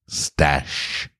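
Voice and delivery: a breathy whisper of the word; whispered headword. A narrator's reading. Opening the new dictionary entry, hushed whisper. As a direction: breathe the title word softly.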